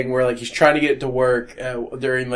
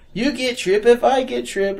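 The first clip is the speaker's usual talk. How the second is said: put-on high singsong rhyming robot kid; bouncy rhyming couplets; 9 semitones higher than usual. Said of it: "he talks in rhyme".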